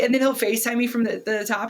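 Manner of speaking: usual speaking voice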